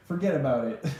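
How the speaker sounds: playful mock New Yorker; New York accent. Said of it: "You know how they say in New York".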